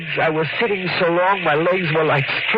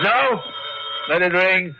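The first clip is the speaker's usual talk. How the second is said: alarmed refusal; 3 semitones higher than usual. Acted. Sam stops wife answering phone.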